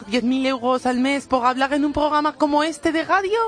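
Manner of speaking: put-on Spanish with a French accent. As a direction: play a fussy French hairdresser. Comic French hairdresser character.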